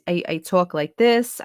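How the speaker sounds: light demo of a New York accent. Shown as a demonstration. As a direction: slip into your childhood Brooklyn accent. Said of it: "when I moved to, to Texas".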